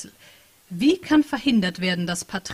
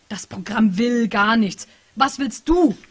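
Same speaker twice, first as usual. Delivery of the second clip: louder, slower, pressing; mild mock shout; 6 dB louder, slower than usual. Patricia typing furiously to the hacker, mild shout. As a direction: push back at the program, a touch of a yell. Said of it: "schrie Patricia".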